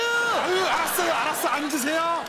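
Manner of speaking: high, loud hasty appeasing; frantically calm an offended customer; flustered placating. Acted. Waiter hurriedly placates offended customer.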